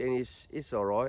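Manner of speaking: put-on British accent. Demonstrating accents they can do, showing a put-on British accent. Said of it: "so this is my British".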